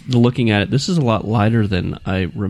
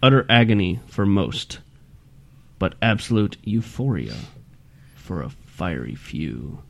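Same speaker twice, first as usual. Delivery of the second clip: scary reading voice. Shown as a demonstration. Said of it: "something scarier".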